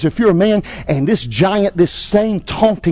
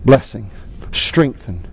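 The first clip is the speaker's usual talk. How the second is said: pastor's closing prayer. Acted. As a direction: lead the congregation in prayer.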